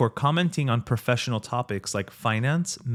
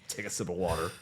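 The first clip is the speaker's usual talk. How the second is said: quiet soothing voice; soft, calming; 7 semitones lower, 9 dB quieter, faster than usual. Pretend. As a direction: say it gently and low. Calming joke, soft aside.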